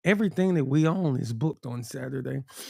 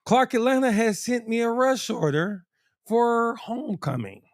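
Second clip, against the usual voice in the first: polished promo voice, a bit higher; business voice; 4 semitones higher than usual. Pretend. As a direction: salesman pitching his shop, half joking. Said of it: "I am using my speaker voice here".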